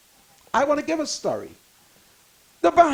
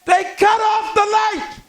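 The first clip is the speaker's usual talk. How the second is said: indignant exclaim; 6 semitones higher, 3 dB louder than usual. Retold or imitated. Retelling the power cut.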